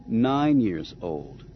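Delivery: NINE drawn out slowly; pointed correction. A narrator's reading. Leia correcting Han on the code key's age, pointed correction. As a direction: stretch the word Nine to correct. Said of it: "Leia corrected".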